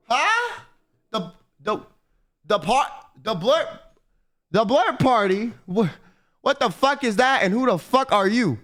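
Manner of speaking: startled high huh, then baffled questions; confused. Retold or imitated. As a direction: act totally lost, asking what this is. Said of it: "I was mad confused".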